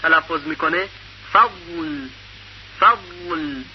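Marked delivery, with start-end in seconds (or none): 1.3-3.6 فضل with the zad flowing into the lam; teacher demonstrating فضل; model pronunciation. Shown as a demonstration. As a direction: say فضل clearly, tongue edge gliding to lam.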